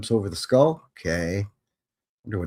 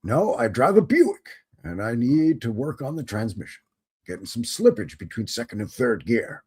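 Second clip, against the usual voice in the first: put-on British accent. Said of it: "Why I'm doing a British accent for Austrians".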